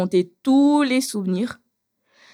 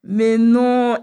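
laughing protest; 5 semitones higher, 5 dB louder than usual. Real, not acted. Laughing at boyfriend's clumsy comfort.

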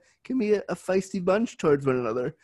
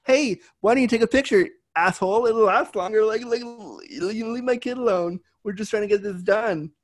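louder and higher, telling off a gawker; retold furious mother; angry mom; 7 semitones higher, 3 dB louder than usual. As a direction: protective mom snapping at a stranger. Mom voiced angry at starer.

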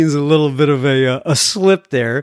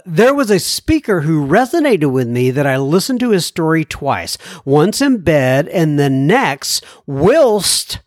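letter read-out. Acted. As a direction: read the listener's letter in measured, singsong phrases. Reads listener's letter.

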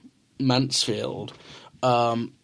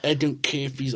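put-on softer, unsure New Zealand accent; failed New Zealand accent; 4 dB quieter than usual. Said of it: "I can't do the accent".

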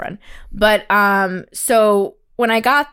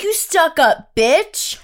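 very slow, drawn-out sneer; slow contempt; 5 semitones higher, much slower than usual. Retold or imitated. Imitating the date insulting her, slow sneer. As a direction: spit out the insult slowly.

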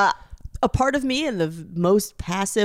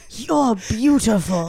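mock tender compliment; 3 semitones lower, slower than usual. Friend playing a charity founder praising a sad man, laughing. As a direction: say it like a saviour, slowly. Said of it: "I told him".

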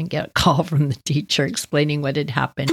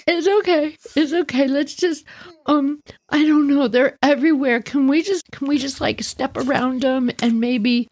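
a hint of a flustered teacher; 4 semitones higher than usual. Flustered teacher after spill.

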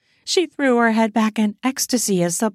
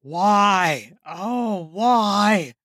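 anguished cry; much slower than usual. Acted. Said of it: "he yelled to the sky".

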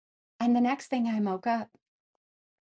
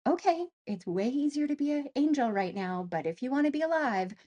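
higher self voice; 5 semitones higher than usual. Retold or imitated. Higher self speaks to her.

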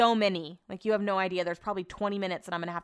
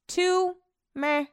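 unimpressed meh; 10 semitones higher, 4 dB louder than usual. Retold or imitated. Dismissing a second sleeve.

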